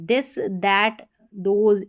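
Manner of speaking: दिस, दैट, दोज begun with Hindi द; th read as द. Shown as a demonstration. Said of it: "इनमें टीएच को द पढ़ते हैं".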